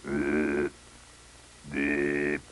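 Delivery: low, monotone buzz imitation; imitated phone tone. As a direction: mimic a ringing line on one low note. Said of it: "And I hear".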